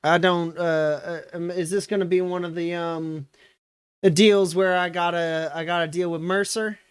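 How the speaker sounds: a chatty grandma giving directions; old woman. Acted. GM voices old woman answering.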